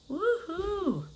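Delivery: high, soft woohoo; woohoo cheer. Real, not acted. Host greeting viewers in the morning, high soft cheer.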